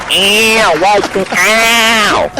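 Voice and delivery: high, drawn-out mock screams; screaming, carrying on. Re-enacting the group carrying on, screaming. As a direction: stretch it into a high campy squeal. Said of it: "Screaming, carrying".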